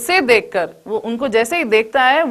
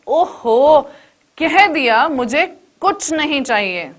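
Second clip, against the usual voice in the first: irritated outburst; 3 semitones higher than usual. Retold or imitated.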